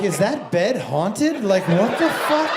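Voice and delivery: 1 incredulous. Retold or imitated. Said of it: "And I was like".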